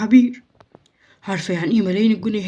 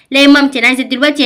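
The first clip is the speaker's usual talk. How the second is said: whiny demand; 3 semitones higher, 6 dB louder, faster than usual. Acted. Child whining demand.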